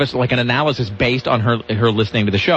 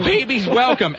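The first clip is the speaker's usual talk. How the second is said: excited exclaim; 9 semitones higher, slower than usual. Real, not acted. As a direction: pitch up on Babies Welcome. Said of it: "Exclamation mark".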